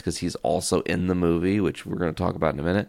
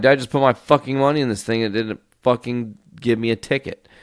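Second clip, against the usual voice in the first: higher, faster exasperated rant; mock the fury of being robbed by a machine; retold outrage; 5 semitones higher, 3 dB louder, faster than usual. Telling the attendant the machine ate his money, fast and exasperated. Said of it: "And I'm like".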